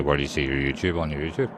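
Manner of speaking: quoted back in mild disbelief; mocking quote. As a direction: repeat it back as if it's absurd. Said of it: "Did you just say".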